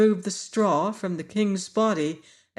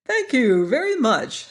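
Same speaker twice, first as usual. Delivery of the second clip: higher, bright grateful thanks; brightly; 6 semitones higher, 4 dB louder than usual. A narrator's reading. Scarecrow king thanks Tip for restuffing him, brightly. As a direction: chirp it out happily. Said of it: "said the monarch brightly".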